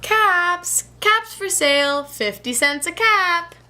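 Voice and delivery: high sing-song vendor call; calling out wares. Acted. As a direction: call out your caps to the street.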